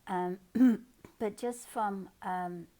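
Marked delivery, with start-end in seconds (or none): 0.4-1.1 loud throat clear. Real, not acted. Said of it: "I may cough a little bit".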